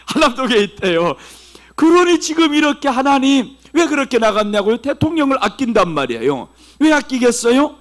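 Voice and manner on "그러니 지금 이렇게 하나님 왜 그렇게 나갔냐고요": ordinary talk, nothing marked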